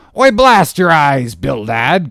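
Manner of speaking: loud, high captain's outburst; indignant cry. A narrator's reading. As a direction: burst out indignantly, drawing out the oath. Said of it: "cried Peleg".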